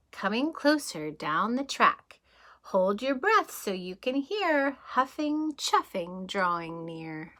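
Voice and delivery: lively rhythmic storybook read; reading to children. Acted. Teacher reading a train book to kids, lively storybook voice. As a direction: read the rhyme like a bedtime adventure.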